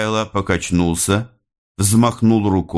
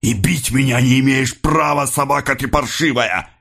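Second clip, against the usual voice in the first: higher, indignant outburst; angry cry; 7 semitones higher than usual. A narrator's reading. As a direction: advance on him with a raised, insulting cry. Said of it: "крикнул Рыбин, наступая на него". (гневный выкрик, наступая)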